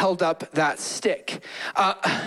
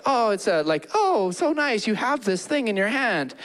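mock cooing compliment; 5 semitones higher than usual. Mocking shallow compliment.

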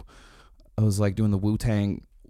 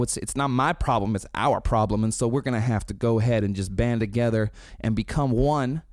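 raised, earnest band-leader pep talk. Retold or imitated. Brian rallying his bandmates, earnest and raised. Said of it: "And so he's like".

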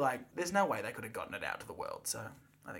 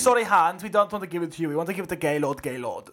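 mock official; 6 dB louder than usual. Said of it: "they were just like".

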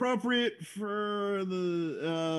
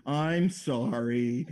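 put-on guilty kid voice; 4 semitones lower, much slower than usual. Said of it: "sounds like a twelve-year-old when caught".

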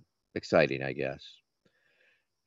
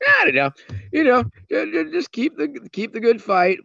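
louder; 4 dB louder than usual. Real, not acted. Snaps back to normal talk.

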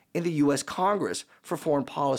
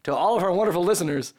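hoarse, gravelly throat; rough croaky voice; frog in throat. Real, not acted. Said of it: "gravel truck in my throat".

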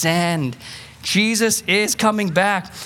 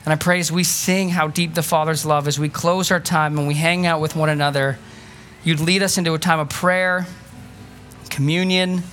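closing prayer; 2 semitones lower than usual. Acted. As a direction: pray over the room sincerely.

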